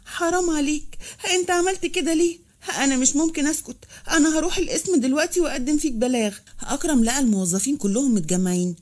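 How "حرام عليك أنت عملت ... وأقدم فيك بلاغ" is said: higher-pitched, mildly tearful protest; wronged woman crying out, understated; acted tearful outrage, pitch raised; tearful accusation. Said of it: "وعيطت وقالت".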